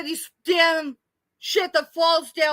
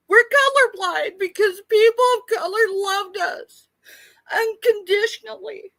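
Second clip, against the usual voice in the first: crying; 4 semitones higher than usual. Real, not acted. Crying remembering childhood.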